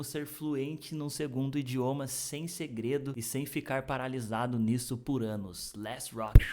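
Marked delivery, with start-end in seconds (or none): 5.8-6.4 excited shout. Real, not acted. Energetic video host kicks off.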